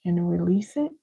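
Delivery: calm breathing cue, gently led; unhurried breath-work guide; guided breathing. Shown as a demonstration. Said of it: "let's do this together".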